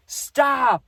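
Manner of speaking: high, loud yell of stop; grandpa's yell. Retold or imitated. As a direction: shout stop to halt the charging dad. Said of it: "he yelled my dad's name and he yelled".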